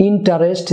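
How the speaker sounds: "ইন্টারেস্ট" as in-ta-rest, three syllables; commonly said interest. Shown as a demonstration. Teacher quotes what we usually say, "ইন্টারেস্ট" as in-ta-rest. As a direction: sound the vowel before r in "ইন্টারেস্ট". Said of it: "যেটাকে আমরা বলে থাকি".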